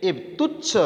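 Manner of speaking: તુચ્છ jumps very high with a rise; teacher stresses તુચ્છ with a high rising pitch; stressed word. Shown as a demonstration. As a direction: lift તુચ્છ way up.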